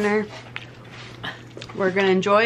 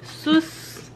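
stifled laughter; 3 semitones lower, 6 dB quieter, slower than usual. Real, not acted. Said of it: "no puedo".

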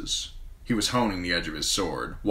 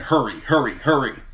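trumpet cry; 7 semitones higher, 6 dB louder than usual. A narrator's reading. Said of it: "A cry that said".

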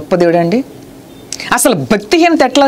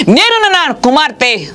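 voice of the Lord; 5 semitones higher, slower than usual. Retold or imitated. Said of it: "నా ప్రభు మాట్లాడేవారు".

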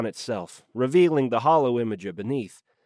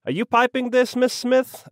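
high, sharp demanding question; 11 semitones higher, 4 dB louder than usual. A narrator's reading. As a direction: demand an answer, pitch pushed right up. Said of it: "I demanded".

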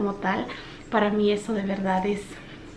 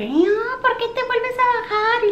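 put-on much higher crying little boy whine; whining toddler; 13 semitones higher, slower than usual. Crying son Samuel begs mom not to go downstairs, much higher whine. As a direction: whine it like a clingy crying child. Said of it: "traigo al chicle de Samuel atrás llorando".

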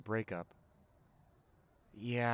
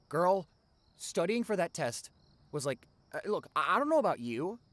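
louder and higher, gushing to a friend; dramatic venting; 7 semitones higher, 6 dB louder than usual. Acted. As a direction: launch into the rant with full drama. Venting dramatically about test stress.

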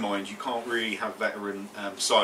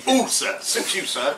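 leery tailor voice; 4 semitones higher, 9 dB louder, slower than usual. Pretend. Innuendo joke, leery tailor quote.

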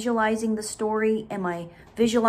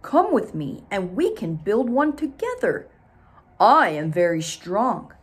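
louder, eager bear voice; 5 dB louder than usual. Acted. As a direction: bear invites beaver, proud. Bear speaks to Beaver.

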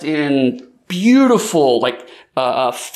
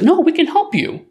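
higher, earnest and eager; high eager offer; 13 semitones higher than usual. Acted. Princess dog pleading with the cats, high and eager. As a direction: blurt out the offer to help.

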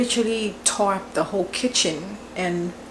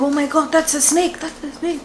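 retold panic; 6 semitones higher than usual. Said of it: "I was shouting".

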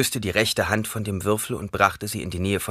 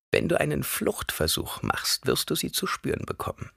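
put-on old crone voice; 3 semitones higher than usual. A narrator's reading. Old woman character voice.

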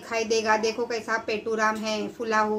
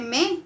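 hesitant hmm; 3 semitones higher than usual. Retold or imitated. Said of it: "ऐसा कर रहा है".

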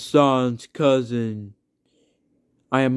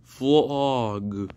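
creepy voice. Pretend. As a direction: say it like a creepy monster. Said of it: "I have a creepy voice ever".

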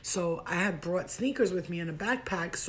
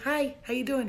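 higher-pitched acted hello; eager flirty greeting; 6 semitones higher than usual. Her eager greeting to him.

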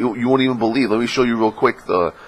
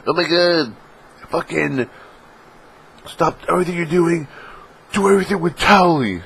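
whiny demanding; 10 semitones higher than usual. Pretend. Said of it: "I'm not the kind of guy that's gonna be like".

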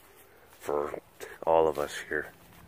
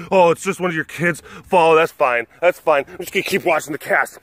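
mock viewer voice; 4 semitones higher than usual. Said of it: "I thought that maybe".

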